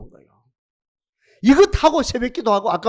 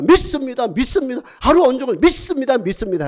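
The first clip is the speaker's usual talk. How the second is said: higher and louder, a ringing affirmation; loud believing declaration; 5 semitones higher, 3 dB louder than usual. Shown as a demonstration. Preacher leading the congregation in a loud declaration. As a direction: proclaim it out loud, lifted high. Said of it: "해봐요".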